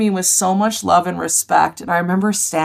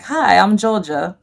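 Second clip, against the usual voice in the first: lightly attempted Australian greeting; a hint of badly imitated Australian; bad Australian accent; 2 semitones higher than usual. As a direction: have a clumsy go at an Australian accent. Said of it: "I can't do an Australian accent".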